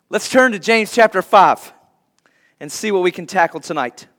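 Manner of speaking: ordinary talk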